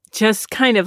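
normal talking voice

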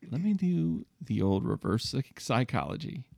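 quiet line forced through gritted teeth. Retold or imitated. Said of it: "Through gritted teeth is just".

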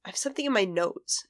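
put-on a touch of a child's whine; imitating mild whining. Small son to mother from the car seat, mildly whining. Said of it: "he starts whining a little bit".

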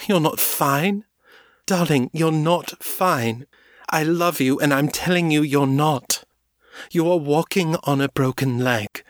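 high, tearful, insistent plea; tearful pleading. A narrator's reading. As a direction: beg her to see the truth through tears. Morgan pleads in tears.

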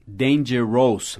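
dangerous said slowly as three parts, "dan-ger-ROUS", ending like "rose"; spelling pronunciation. Shown as a demonstration. Teacher reading dangerous as it is written, spelling pronunciation. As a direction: sound out "dangerous" as written, with a full -ous. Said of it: "a gente nunca fala dangerous".

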